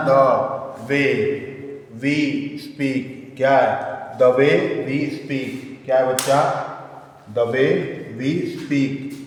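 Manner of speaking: slow dictation, word by word. Acted. Teacher dictating notes for students to write, slow dictation. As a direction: dictate in separated chunks with long pauses.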